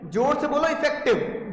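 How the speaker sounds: इफेक्टिव said slowly with weight; stress on effective. Shown as a demonstration. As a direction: lean on इफेक्टिव like a chant. (इफेक्टिव पर ज़ोर देकर धीरे बोलना)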